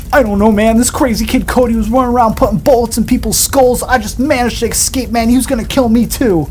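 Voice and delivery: faked panic. George lying to the police about the crash, in mock panic. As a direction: play the terrified survivor, voice up high.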